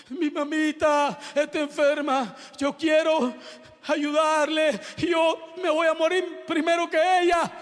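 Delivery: imitated plea in halting phrases; acted pleading girl. Dying girl worries for her sick mother, acted plea. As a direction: plead like a distressed daughter.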